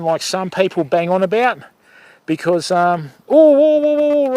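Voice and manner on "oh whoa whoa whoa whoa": high, louder cries of whoa at the bite; excited whoa. Real, not acted. To viewers as a fish bumps the line, high excited whoas. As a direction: yelp it out as the rod tip jumps.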